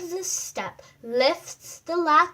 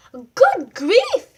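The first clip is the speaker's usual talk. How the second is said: dismayed exclamation; 5 semitones higher, 11 dB louder than usual. Acted. Wolf dismayed.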